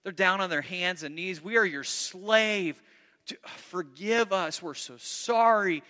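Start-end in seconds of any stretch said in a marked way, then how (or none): 1.4-5.8 slow, pleading, slightly raised; begging brothers. Acted. Brothers pleading with Joseph, slow and begging. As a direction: draw out each plea like kneeling for mercy. Brothers beg on their knees.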